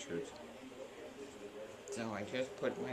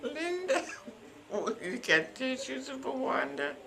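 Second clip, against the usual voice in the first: higher, called out down the lane; calling down the hall; 14 semitones higher, slower than usual. Retold or imitated. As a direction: call a name across the hall. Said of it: "he yelled down the lane".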